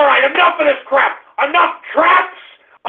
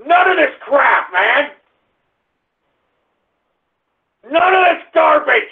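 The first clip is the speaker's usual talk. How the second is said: angry shout; 2 semitones higher than usual. Real, not acted. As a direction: lay down the law. Banning shout-outs, angry.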